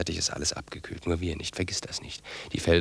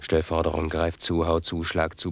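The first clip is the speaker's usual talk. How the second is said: urging; 5 dB louder, slower than usual. Acted. Urging brother to violence.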